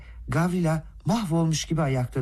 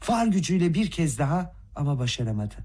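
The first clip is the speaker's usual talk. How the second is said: ordinary delivery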